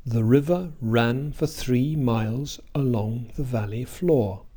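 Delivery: "The", "for" and "a" of "along" reduced to weak vowels; weak unstressed vowels. Shown as a demonstration. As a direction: stress RIVER, RAN, THREE, MILES, VALLEY, FLOOR, reduce the rest. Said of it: "Listen once again".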